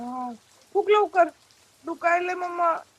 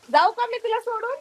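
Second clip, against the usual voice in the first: higher, sing-song teasing; playful baby talk; 6 semitones higher than usual. Acted. Mother teasing her baby that she'll leave, high baby talk.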